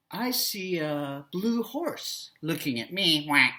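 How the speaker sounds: slow storybook duck, ending on a quack. Shown as a demonstration. Teacher voicing the yellow duck answering, slow duck voice. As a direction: lightly voice a duck, taking it slowly.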